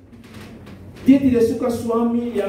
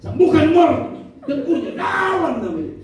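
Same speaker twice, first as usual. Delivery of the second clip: fervent prayer; 10 semitones higher than usual. Retold or imitated. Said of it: "Kalau orang lupa bilang ngorok ya".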